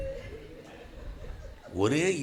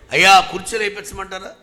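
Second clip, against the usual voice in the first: mock polite shout; 6 semitones higher, 13 dB louder than usual. Mocking pastor's offer.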